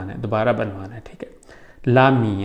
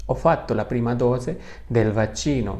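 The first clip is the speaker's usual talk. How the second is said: "ho fatto la prima dose del vaccino" at a more flowing, natural speed; repeated at easier pace; slower than usual. Shown as a demonstration. Teacher to students, repeating the sentence more fluently. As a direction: say it again closer to normal.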